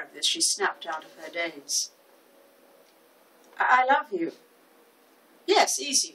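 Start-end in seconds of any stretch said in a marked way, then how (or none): 3.6-4.3 higher, louder startled stammer; flustered. A narrator's reading. Florist snaps out of her daze before a customer, flustered. 5.5-6.1 brisk, higher-pitched assurance; confident. A narrator's reading. Florist assures the customer the job is easy, confident. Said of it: "she said with confidence".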